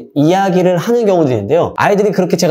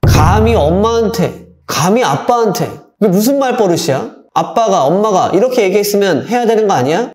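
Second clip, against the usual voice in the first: 감히 엄마한테 stressed on 감히 with a falling pitch; a mildly angry parent; mock indignant parent; 4 semitones higher than usual. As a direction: scold with a touch of outrage. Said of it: "이런 어머님들, 이런 아빠 꼭 있었을 겁니다".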